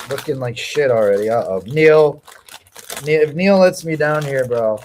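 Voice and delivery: talking while chewing; words round a bite of food; mouth full. Real, not acted. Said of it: "how much chips are you eating".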